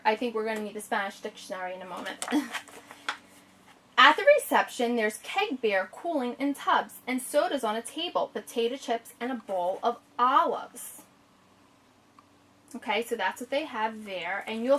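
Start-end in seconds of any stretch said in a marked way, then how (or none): 4.0-11.0 story reading. Acted. Reads the picture book aloud.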